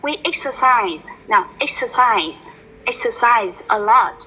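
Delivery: slow, deliberate "exercise a lot"; slow teacher model. Shown as a demonstration. Teacher models for her student to repeat, slow and deliberate. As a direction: model it slowly, word by word.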